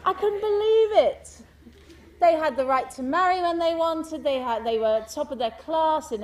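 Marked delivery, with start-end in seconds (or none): 0.0-1.4 laughing. Real, not acted. Laughing at the memory.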